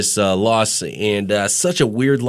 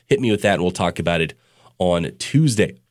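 stuffed-up nose from a cold; blocked nose; 3 semitones lower than usual. Real, not acted. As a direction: talk through a stuffy nose. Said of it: "apologies if I do sound a little stuffed up".

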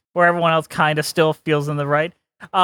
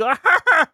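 big Pee-wee laugh; 12 semitones higher than usual. Shown as a demonstration. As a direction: burst out in a big high cackle. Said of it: "The big".

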